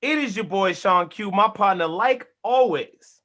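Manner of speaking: punchy host intro, stretched phrase endings; show opener. Real, not acted.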